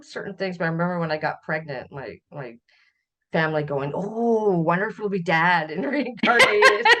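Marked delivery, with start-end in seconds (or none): 3.9-6.9 laughing quote. Retold or imitated. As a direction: family remark dissolving into laughter. Retells family's remark, laughing.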